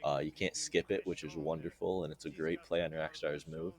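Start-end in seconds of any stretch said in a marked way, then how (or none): 1.0-3.7 dry, understated mock praise; deadpan sarcasm. Real, not acted. Guide narrator praising Rockstar's unskippable dialogue, deadpan sarcasm. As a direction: praise it with straight-faced sarcasm. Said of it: "that's sarcasm, in case you couldn't tell".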